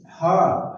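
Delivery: "हा" as one syllable with H sounded; isolated HA sound. Shown as a demonstration. Teacher isolating husband's first sound, H pronounced. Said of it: "है का sound हो रहा है एच का".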